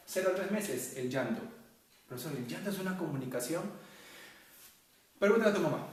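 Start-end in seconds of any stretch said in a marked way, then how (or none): 5.2-5.8 loud retort. Real, not acted. Teacher retorts to student question.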